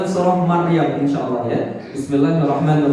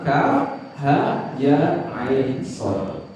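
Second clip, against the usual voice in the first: "Kaf ha ya ain sad" slow, each name apart; letter by letter; 3 semitones lower, 4 dB quieter, much slower than usual. Shown as a demonstration. Preacher showing how hijaiyah letters are read, "Kaf ha ya ain sad" slowly spelled out. Repeats the letters separately to teach.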